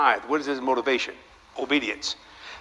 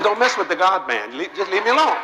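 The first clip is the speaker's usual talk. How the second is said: mock indignation; 5 semitones higher, 3 dB louder than usual. Mock warning to granddaughter.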